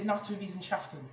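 Naturwissenschaften in careful German, rolled t and v sound; showing off a German word. Shown as a demonstration. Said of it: "instead of saying science, I said".

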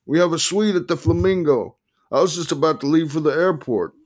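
high-pitched scolding voice; exasperated attorney. A narrator's reading.

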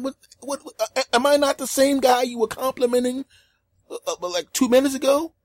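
high-pitched stammering disbelief; acted wounded incredulity; indignant protest. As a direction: stammer out an offended question. Acts out his indignant protest.

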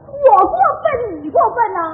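loud, high, drawn-out protest; outraged, stretched-out comeback; indignant retort. Acted. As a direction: throw the blame back, loud and slow. Wife indignant at being blamed in quarrel.

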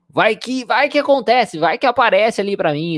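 high-pitched, urgent imitation of a worrier; mock what-if worry. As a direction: pile up the what-ifs, voice jumping high. Voices students' just-in-case worry.

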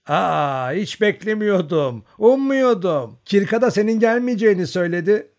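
put-on an old mother who didn't expect her son at the door; surprised old woman. A narrator's reading. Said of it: "kapıyı açınca şaşırmıştı".

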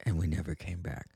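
dropped low and soft, deadpan; mock ominous hush. Telling listeners the show stopped, in a low deadpan hush. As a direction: let it fall low and quiet like a punchline. Joke about never returning.

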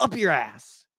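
"Up your ass" pitched high, dropping on "ass"; downward tune on "ass". Shown as a demonstration. Showing co-host the American version, "ass" going down. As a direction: land "ass" on a firm fall. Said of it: "it's like a down, you know".

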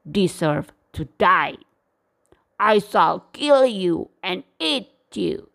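angry roar. Acted. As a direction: play the lion scolding the little mouse. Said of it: "roared in anger".

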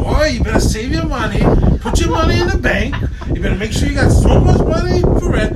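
high, loud nagging dad voice; hammed-up fatherly lecture; mock lecturing father. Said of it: "you know who you sound like? ... fucking father".

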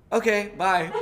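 high, loud mock-casual goodbye, breaking into a laugh; comic sudden farewell. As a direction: toss off the punchline with laughter. Sheepish punchline after mom appears.

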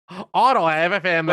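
lightly put-on Australian accent, hammed-up; poor man's Australian. Mocking the boyfriend's line in a sloppy Australian accent. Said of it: "sorry for my poor man's Australian accent".

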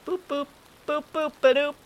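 squeaky, very high cartoon catchphrase; Betty Boop. Host hinting at a cartoon character to co-host, squeaky imitation. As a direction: chirp the boops in a squeaky put-on voice. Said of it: "squeaky Betty Boop voice".

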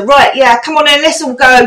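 put-on chirpy South London accent, mates heading out; a cheerful South London accent. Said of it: "I'd slip into".

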